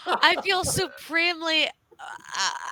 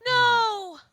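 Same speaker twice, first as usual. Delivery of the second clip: distressed cry; 10 semitones higher, 6 dB louder than usual. Acted. Player's character sees friend's body.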